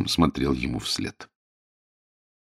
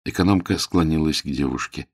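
ordinary delivery, nothing marked

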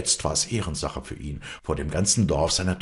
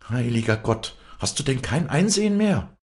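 desperate high plea, climbing sharply; crying out; 9 semitones higher, 4 dB louder than usual. A narrator's reading. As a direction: cry out in despair to your father. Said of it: "schrie Walli auf".

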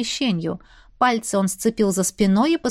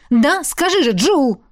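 louder, higher frantic plea; hysterical demand; 5 semitones higher, 4 dB louder than usual. A narrator's reading. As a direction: push Jul to answer. Youngest in hysterical accusation. (истеричный крик)

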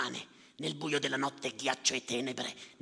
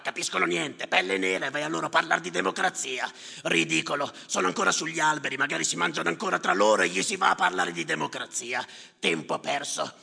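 contemptuous sneer; 3 semitones higher, 4 dB louder than usual. Acted. Prejudiced sneer about Yusuf.

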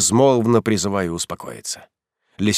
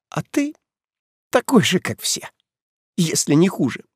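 tearful reproach; 9 semitones higher than usual. Acted. Heroine accuses him, tearful.

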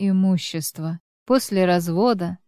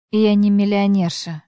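sullen, slightly louder; gloomy; 3 dB louder than usual. A narrator's reading. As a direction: say it with a sulky frown. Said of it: "хмуро сказала Татьяна".

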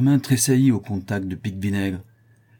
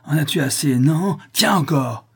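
raised voice, higher and forceful; angry attack; 6 semitones higher, 4 dB louder than usual. Acted. Prisoner beating the man who robbed him, furiously. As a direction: throw each word like a blow.

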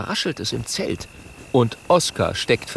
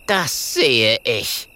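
slow scornful ghost; mocking; 2 semitones higher, 3 dB louder, much slower than usual. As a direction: drawl it with scorn. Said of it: "sagt Clementia spöttisch".

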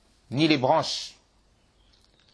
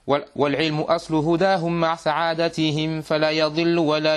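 measured, even-toned reading of classical verse; level Arabic didactic poem recital; verse recitation. Acted. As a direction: recite the poem in a steady, continuous metre. Reads the poem's verses aloud.

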